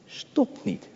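stopt niet breathed in a whisper. Acted. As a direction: hush it to draw them in. Contrast whispered and plain phrase.

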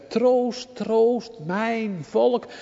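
high, slow, lifted voice of God; God speaking. Acted. Preacher voicing God's call to his people, high and slow. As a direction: draw out the divine call to comfort. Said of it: "en die zegt".

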